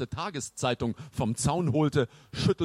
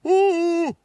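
very high, loud hoot; calling out; 8 dB louder than usual. A narrator's reading. Knight calls after the two fleeing boys, high and loud. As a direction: holler a drawn-out call after someone. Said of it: "rief er den beiden hinterher".

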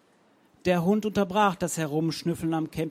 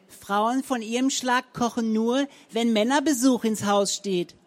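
higher, louder spiteful jab; venomous; 7 semitones higher, 5 dB louder than usual. A narrator's reading. Frau Zenker spits spite at her neighbour, loud and high. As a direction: spit the words out with venom. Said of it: "giftete die Zenker".

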